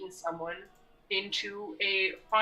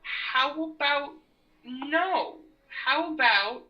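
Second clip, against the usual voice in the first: defiant sass; 6 semitones higher, much slower than usual. Acted. Character defies villain.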